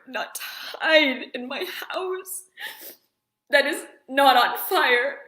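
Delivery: crying through the words. Real, not acted. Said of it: "it really bothers me sometimes when I can't stop crying".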